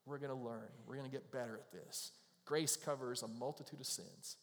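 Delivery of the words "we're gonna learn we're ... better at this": tender reassurance. Retold or imitated. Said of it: "But he goes".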